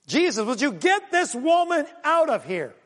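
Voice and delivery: high-pitched fed-up demand; mock exasperation. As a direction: act out a disciple at the end of patience. Disciples' fed-up demand, acted.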